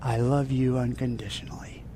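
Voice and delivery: unvoiced loving whisper. God whispering love to the worshipper, whispered. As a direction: breathe it close to the ear. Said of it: "He whispers into your ear".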